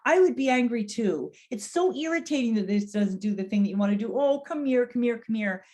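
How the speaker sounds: high, caring sympathy; validating warmth. Shown as a demonstration. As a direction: empathize with him, then draw him in. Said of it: "which is to say".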